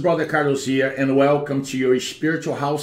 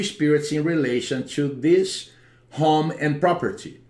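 praying. Acted. Deliverance prayer over the home.

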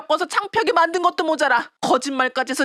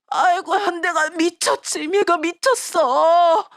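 lamenting; 2 semitones higher, much slower than usual. Acted. Mother realizes she was deceived.

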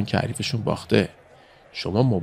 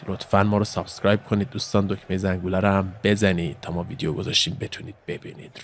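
normal talking voice

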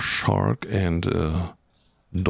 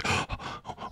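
mock gasp; 10 dB quieter than usual. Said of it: "transport, uh, this kind of mood to all of you".

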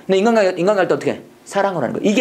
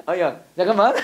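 laughing switch-over. Acted. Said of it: "전환이 필요해".

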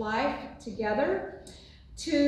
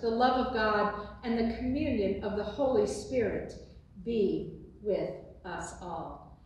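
benediction. Acted. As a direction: bless them line by line, unhurried and solemn. Pastor pronounces traditional benediction.

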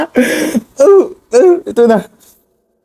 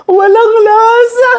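whining; 10 semitones higher than usual. Real, not acted. Complaining about taste.

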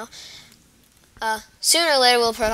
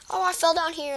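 zombie; 7 semitones higher than usual. Pretend. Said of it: "Let's pretend that I'm a zombie".

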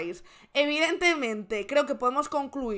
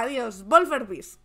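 demanding; 3 dB louder, slower than usual. Shown as a demonstration. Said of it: "ya como exigiendo".

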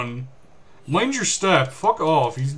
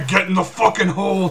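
laughing replay. Retold or imitated.

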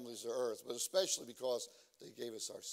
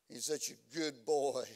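doting mom; 2 semitones lower, slower than usual. Retold or imitated. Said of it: "my mom would pat me on the head".

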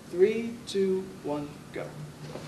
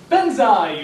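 high, loud shout; shouted battle cry; 5 semitones higher, 9 dB louder than usual. Shown as a demonstration. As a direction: yell it out sharply. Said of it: "I'm gonna go".

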